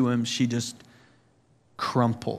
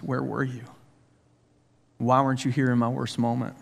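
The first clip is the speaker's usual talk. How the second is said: tearful sobbing. Retold or imitated. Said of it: "through sobbing tears".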